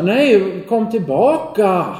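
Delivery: high, loud call after him; distant shout. Acted. Boy calling after the fleeing man, high and loud. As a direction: call out to make him come back. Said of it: "Nu ropar han".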